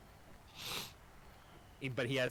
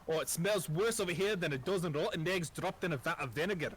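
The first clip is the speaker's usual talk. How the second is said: higher, theatrical quote of a game NPC; Divinity NPC quote; 5 semitones higher than usual. Retold or imitated. The DM quotes a Divinity game line to the fans, hammed-up. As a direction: recite it like the game's stock line. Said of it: "for all of you, Divinity fans".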